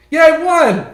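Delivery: high, loud gleeful yeah; mock victory cheer. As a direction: cheer the win.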